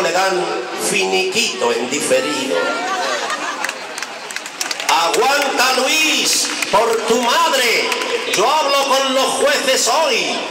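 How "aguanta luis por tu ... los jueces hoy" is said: high, slow cajoling politician voice; Rajoy impression. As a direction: coax him like a smarmy boss, slowly. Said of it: "le anima desde el gobierno el presidente Rajoy". (imitación de Rajoy, aguda y lenta)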